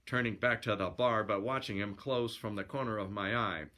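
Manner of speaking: lively yarn-spinning narration; storyteller reading aloud; story narration. A narrator's reading. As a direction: read it as a colloquial sailor's yarn.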